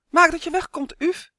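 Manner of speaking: high, loud shout to send the dragonfly off. A narrator's reading. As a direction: yell it out as you throw him away. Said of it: "riep hij". (hoog en luid roepend)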